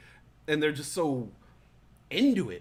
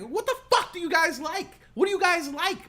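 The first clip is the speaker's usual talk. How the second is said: higher, laughing exasperation; exasperated; 10 semitones higher, 3 dB louder than usual. Retold or imitated. Fed up with complaining coworkers, laughing exasperation. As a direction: throw up your hands at them.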